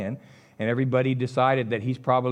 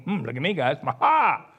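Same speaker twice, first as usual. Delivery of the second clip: boastful Peter. Acted. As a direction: crow about yourself like a show-off. Peter boasting, proud of his new name.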